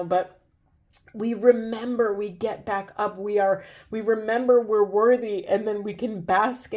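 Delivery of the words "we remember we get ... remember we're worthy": choked-up and emotional, trying not to cry; holding back tears. Real, not acted. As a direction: push the words through held-back crying. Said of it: "fighting back some ugly crying".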